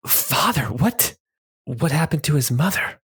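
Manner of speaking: startled question. Acted. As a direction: ask in alarm. Sanya shocked question.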